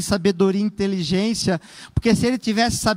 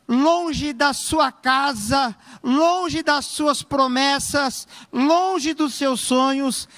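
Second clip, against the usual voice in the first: slow, drawn-out preaching; slow preaching emphasis; 3 semitones higher, much slower than usual. Acted. Preacher to congregation, slow and drawn out. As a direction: stretch each phrase out to move the crowd.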